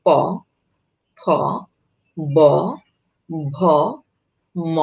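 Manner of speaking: প, ফ, ব, ভ, ম, each isolated with a pause, lips closing; lip consonants demo. Shown as a demonstration. Teacher listing lip sounds for students, pausing after each. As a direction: say প ফ ব ভ ম slowly, one lip sound at a time. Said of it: "ওষ্ঠধ্বনি যেগুলি আমরা বলি".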